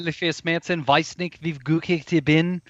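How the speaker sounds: German lyrics talked, not sung; song lyrics spoken. Shown as a demonstration. Showing off German song words to co-hosts, spoken unsung. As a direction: recite the song as if conversation. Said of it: "Instead of singing it, I just talked it".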